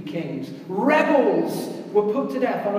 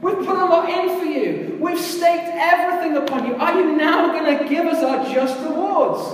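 eager pleading disciples; 4 semitones higher than usual. Retold or imitated. Disciples pressing Jesus for kingdom.

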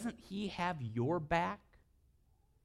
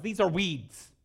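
"These are weeds" said louder with a laugh breaking through; mock scolding with a laugh; 5 semitones higher, 7 dB louder, slower than usual. Dad scolds daughters over dandelions.

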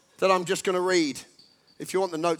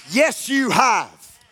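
slow, louder, firm reassurance; slow affirmation; 2 semitones higher, 5 dB louder, much slower than usual. Acted. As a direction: confirm it slowly like an encouraging coach. Therapist answers inner voice.

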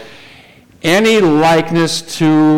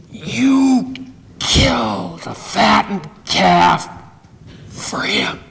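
tearful; 6 semitones higher, much slower than usual. Acted. Resentful climax of complaint.

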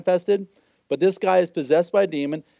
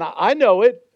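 jabbing demon; 2 semitones higher, 3 dB louder than usual. Acted. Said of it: "he's kind of jabbing Jesus".

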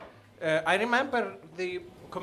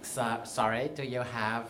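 soft, hesitant try at a lisping gay voice; 5 semitones lower, 6 dB quieter, slower than usual. Acted. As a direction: tentatively put on a slight lisp, quietly. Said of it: "there's like a lisp to it".

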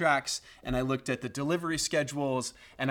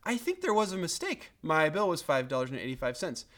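mild, unforced polite complaint; calm, polite query; 3 semitones higher than usual. Retold or imitated. Customer politely querying a bill by phone, calm. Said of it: "all I had to do was".

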